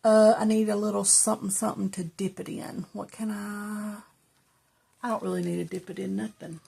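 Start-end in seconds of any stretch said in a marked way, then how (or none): 1.5-4.0 whispering. Real, not acted. Whispered to herself.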